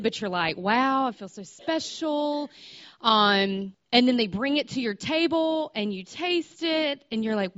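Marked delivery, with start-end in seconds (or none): 0.6-2.5 bashful delight, pitch rising on special; embarrassed excitement. Retold or imitated. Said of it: "like, embarrassed, but you're excited".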